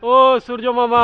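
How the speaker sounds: loud mock appeal to the sun; calling out. (জোরে ডাক দেওয়া)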